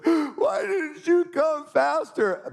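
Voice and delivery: put-on high, slow child's whine; a daughter's high slow reproach; whiny little girl. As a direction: complain like a hurt little girl. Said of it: "and she said".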